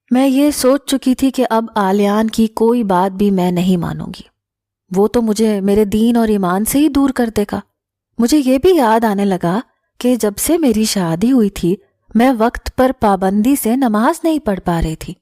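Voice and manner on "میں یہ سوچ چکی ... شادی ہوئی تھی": usual speaking voice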